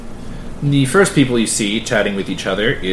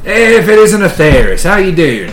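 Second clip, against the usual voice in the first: put-on Australian accent; 6 semitones higher, 4 dB louder than usual. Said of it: "I'm going to Australian down".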